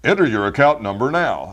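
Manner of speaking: loud, stiff phone-system announcer; automated announcer. Shown as a demonstration. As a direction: bark it like a robotic phone prompt. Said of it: "They can't identify with".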